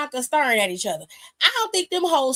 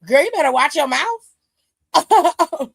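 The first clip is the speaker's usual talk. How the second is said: slow, louder mock threat; threatening warning; 2 semitones higher, 6 dB louder, much slower than usual. Retelling Naomi warning Bianca, slow and louder threat. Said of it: "Miss Girl was like".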